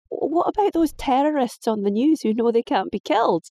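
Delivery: high, exasperated protest; indignant girl. Acted. Daughter voiced, high.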